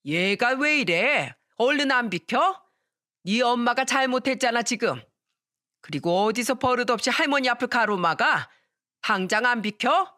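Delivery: 손자를 나무라는 할머니, 다소 높고 언성을 높여; 비키라고 다그치는 할머니 느낌을 가볍게; scolding grandmother. Acted. (손자에게 비키라고 다그치는 할머니, 약간 높인 언성)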